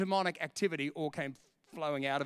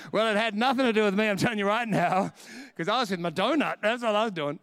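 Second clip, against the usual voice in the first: louder, joking through laughter; laughing denial; 5 dB louder than usual. Real, not acted. Preacher joking it was nothing to do with him, laughing. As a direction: deny any credit while laughing.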